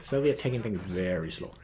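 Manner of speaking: ordinary delivery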